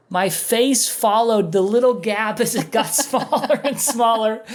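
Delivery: milk the squeezing gap for laughs; laughing at his own stubborn face; comic build. Retold or imitated. Comic retelling of door closing.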